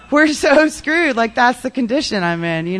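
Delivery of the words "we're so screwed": higher, louder and slower, leaning on it; emphatic repeat. Real, not acted. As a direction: say it again with real alarm. Repeated with more force.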